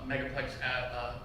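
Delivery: usual speaking voice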